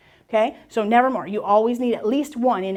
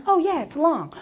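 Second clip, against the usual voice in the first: put-on child realizing; 5 semitones higher than usual. Teacher voices child working it out.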